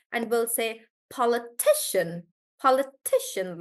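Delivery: politician with ti stressed. Shown as a demonstration. Teacher models politician for the class, ti stressed. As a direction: hit ti in politician. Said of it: "we'll do the one right before".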